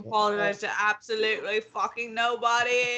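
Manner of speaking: mock apology built into loud defiance; defiant non-apology. Host retracting the apology to everyone, defiant.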